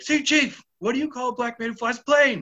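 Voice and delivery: high, insistent mock shout; calling over yelling. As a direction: pitch it way up to cut through a tirade. Retold joke shouted over yelling chief.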